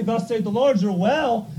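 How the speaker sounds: loud, high prophetic proclamation; lightly voiced prophet; Brother Branham proclaiming. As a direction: announce it with authority. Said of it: "Brother Branham would say".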